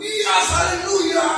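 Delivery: high, slow, drawn-out empty praise; hollow mock hallelujah. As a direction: say it sweetly but without meaning it. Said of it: "Tapi ternyata di sini tidak percaya". (haleluya yang dibuat-buat, tinggi dan lambat)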